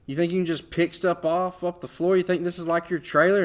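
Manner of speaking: high, loud scolding mock waitress; angry waitress. Waitress scolding him for picking up the menu, high loud sneer.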